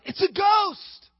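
high, slow frightened shout; terrified cry. A narrator's reading. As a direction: scream it out in terror. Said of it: "They were crying".

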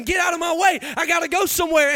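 mildly impatient, retold driver's grumble; frustrated. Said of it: "I'm getting frustrated".

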